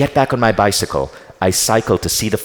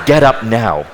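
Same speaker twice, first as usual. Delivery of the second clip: louder, firm command; bossy order; 2 semitones higher, 6 dB louder, slower than usual. Retold or imitated. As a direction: snap the order like a bossy guide. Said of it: "you're so freaking bossy".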